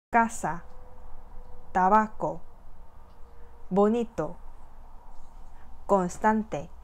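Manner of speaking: each word read clearly with penultimate stress; slow model reading, stress on the second-to-last syllable; model Spanish words. Shown as a demonstration. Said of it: "단어들을 한번 발음해 볼까요". (끝에서 두 번째 음절에 강세를 두고 또박또박)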